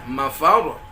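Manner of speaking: "mafar" with its last syllable lifted and stressed. Shown as a demonstration. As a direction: lean up hard on the end of "mafar". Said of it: "Harus naik dia".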